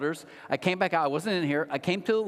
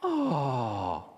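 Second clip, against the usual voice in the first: imitated crowd "aww"; 4 semitones lower than usual. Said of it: "and collectively, the picture came on".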